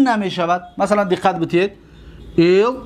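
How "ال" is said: very slow, drawn-out syllables; slow dictation with long pauses. Shown as a demonstration. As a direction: sound out each syllable as if writing it. Teacher dictating the word syllable by syllable.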